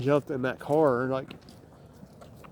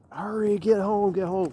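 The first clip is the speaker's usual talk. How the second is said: higher, slowed mock holler without real volume; retold holler; 4 semitones higher than usual. Hollering at a friend to get home, mildly imitated. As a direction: imitate calling out urgently, pitch raised. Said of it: "I hollered at you".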